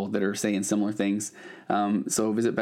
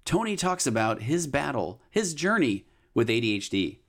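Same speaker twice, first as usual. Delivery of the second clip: announcer teaser; 4 semitones higher than usual. Acted. Host teasing today's special episode to listeners, announcer read.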